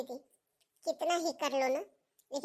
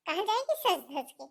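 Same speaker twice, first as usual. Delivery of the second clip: laughing while jeering; mother-in-law laughing at the bahu's wish to dress up; mocking laugh; 3 semitones higher than usual. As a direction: sneer through a laugh at her.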